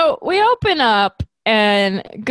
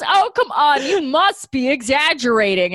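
laughing mock Krillin; 5 semitones higher than usual.

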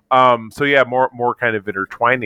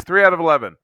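raised, lively pitch on the verdict; excited tally; 7 semitones higher, much faster than usual. Real, not acted. Fan counting his favorite movies, pleasantly excited. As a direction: announce the count with rising enthusiasm.

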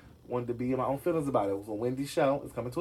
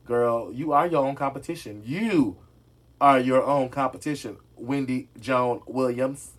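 louder, punching ARE; emphatic pep talk; 6 dB louder, slower than usual. Real, not acted. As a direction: hammer home the encouragement.

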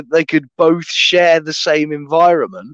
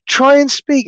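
singsong puppet show host; 11 semitones higher, 4 dB louder than usual. Retold or imitated. Researcher coaxing dolphins to talk.

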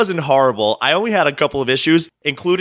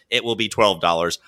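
flat robotic monotone; 5 semitones lower, 3 dB quieter than usual. Retold or imitated. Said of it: "The robot says".

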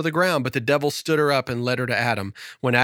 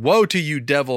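crying out; 3 semitones higher, 4 dB louder than usual. Acted. Eve crying out at the devil, dramatic lament. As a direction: throw the woe out as a lament. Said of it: "She cried out".

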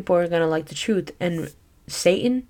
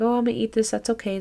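cheerful sister; 5 semitones higher, faster than usual. Retold or imitated. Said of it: "She's still like".

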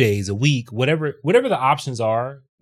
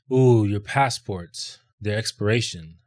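calmly imitating an airline agent, slowly; 3 semitones lower, slower than usual. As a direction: break the bad news slowly and mildly. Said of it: "Very calm".

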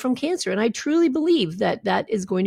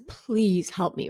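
soft, slow retold plea; hushed, drawn-out appeal for help; pleading; 5 dB quieter, slower than usual. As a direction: imitate a desperate man quietly begging. Voices sobbing man's plea.

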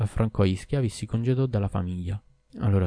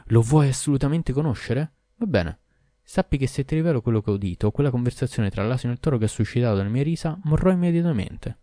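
higher and louder, fed-up husband; exasperated exclamation; 5 semitones higher, 5 dB louder than usual. A narrator's reading. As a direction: blurt it out, worn down by her crying. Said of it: "Stanco dei suoi pianti, il mercante alla fine esclamò". (marito esasperato, più forte e acuto)

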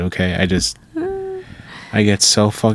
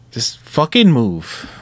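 exasperated; much slower than usual. Acted. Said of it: "I sound a little aggressive".

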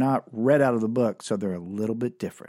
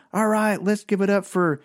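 club emcee; 6 semitones higher than usual. Retold or imitated. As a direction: hype the next act like an MC. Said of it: "this M C would walk up and goes".

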